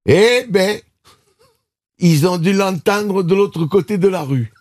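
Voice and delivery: high, slow lady in the front row; old lady voice. Retold or imitated. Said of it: "une dame au premier rang qui a dit".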